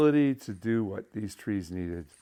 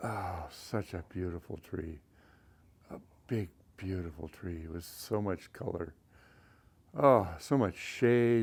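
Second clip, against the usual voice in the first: sarcastic, insincere, fake gushing admiration; 3 semitones lower, 5 dB quieter than usual. Looking at a badly topped tree: sarcastic fake praise. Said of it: "I'm sure you can all see the sarcasm here".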